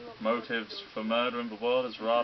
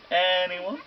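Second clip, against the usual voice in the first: higher, louder rising "Anyone?"; louder impatient repeat; 9 semitones higher, 6 dB louder than usual. Acted. Villain prodding silent students, impatient louder.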